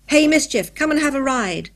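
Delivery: put-on loud, high, eager child's call; excited boyish shout. A narrator's reading. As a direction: call your pet over to join the game. Boy calls monkey from upstairs.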